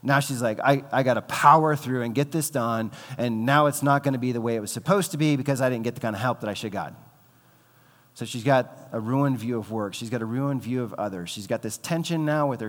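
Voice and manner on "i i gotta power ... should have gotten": grumbling frustration. Acted. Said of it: "Now she's banging the pots and pans".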